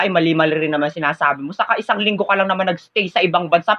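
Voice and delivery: usual speaking voice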